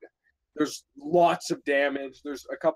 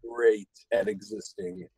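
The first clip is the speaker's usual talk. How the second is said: Trump impression. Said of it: "You sound more like a surfer dude than Trump".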